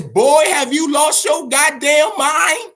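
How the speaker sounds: mother on the phone scolding her son, shouting; scolding mom. Retold or imitated. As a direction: play an outraged mother yelling down the phone. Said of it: "gives him a call and says".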